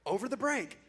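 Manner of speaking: reading his daring invitation as a grand announcement; reading his bold post. Retold or imitated. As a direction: build it up like a big proposal. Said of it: "It's the next slide".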